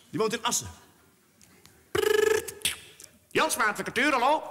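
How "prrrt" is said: high trilled phone ring; imitated phone ring. Lawyer's phone ringing in Assen, high trilled ring.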